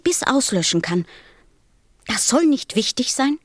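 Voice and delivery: mild indignation. Acted. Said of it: "ganz blass vor Zorn".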